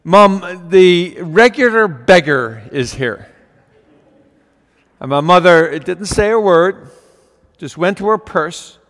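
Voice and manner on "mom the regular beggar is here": put-on frustrated boy.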